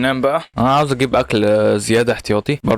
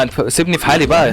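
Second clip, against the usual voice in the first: higher, pestered appeal; harried plea; 4 semitones higher than usual. Real, not acted. Gamer telling an attacking mob to back off, harried plea. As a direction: plead to be left alone.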